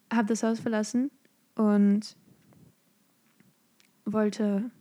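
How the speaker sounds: whispered "Hab das Haus verlassen" like a big secret; mock awed whisper. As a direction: hush "Hab das Haus verlassen" as if it's shocking news. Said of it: "Crazy, you guys". („Hab das Haus verlassen“ ehrfürchtig geflüstert)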